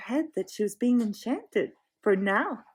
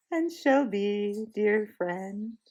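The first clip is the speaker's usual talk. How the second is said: soothing; much slower than usual. Acted. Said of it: "in a soothing voice".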